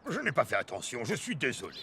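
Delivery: sheepish apology. Acted. Apologizing after scolding.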